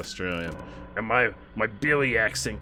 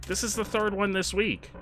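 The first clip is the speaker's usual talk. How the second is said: shook; 9 semitones higher, 3 dB quieter than usual. Real, not acted. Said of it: "I'm shook".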